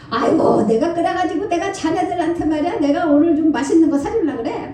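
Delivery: lightly voiced jovial old scholar, laughing; a hint of a booming, good-natured elder; hearty old professor. Pastor imitating the professor confessing his mistake, lightly hearty. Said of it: "막 이러시면서".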